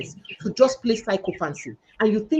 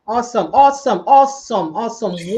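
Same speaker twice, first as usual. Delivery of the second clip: excited praise; 6 dB louder than usual. Real, not acted. Host praises guest's stand.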